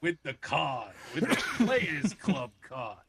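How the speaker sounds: slow, laughing pitchman voice; lightly voiced Telly Savalas, laughing through it; Telly Savalas impression. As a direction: hawk the casino deal like a smug spokesman. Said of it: "doing my Telly Savalas voice".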